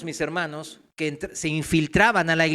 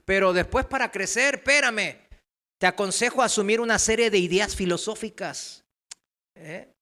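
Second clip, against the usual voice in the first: loud, raised, insistent argument; imitated false teacher; 4 semitones higher, 5 dB louder than usual. False teacher grants the gospel then pitches philosophies, insistent imitation. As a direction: push the point forcefully, then ease into advice. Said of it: "esta gente se mete y dice".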